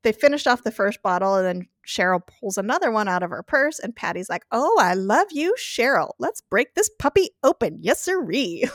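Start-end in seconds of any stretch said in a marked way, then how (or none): 4.5-8.6 mildly tipsy, sing-song giddy; a light take on a drunk friend gushing; drunk Patty. Retold or imitated. To Cheryl, opening another bottle, mock tipsy gush. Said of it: "she's being so stupid and drunk".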